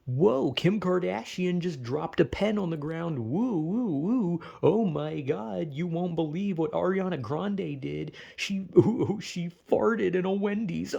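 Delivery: hammed-up breathless gossip host; overexcited tabloid reporter parody; mock celebrity gossip. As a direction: gush over trivia like a tabloid show. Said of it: "Celebrity news is always".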